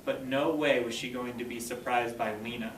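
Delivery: slow, expressive storybook narration; story read-aloud. A narrator's reading. Teacher reading the race scene to her students, expressive read-aloud. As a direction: read it to the class, building the race. Reads chapter aloud to class.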